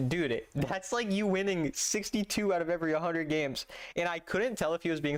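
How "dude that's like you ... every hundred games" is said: quoting a commenter. Retold or imitated. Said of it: "and he said".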